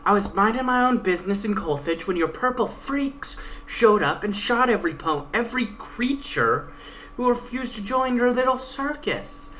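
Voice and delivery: Pegasus. Acted. Pegasus taunting her guide, a lightly voiced cocky mare. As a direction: read the Pegasus as a cocky, defiant young mare.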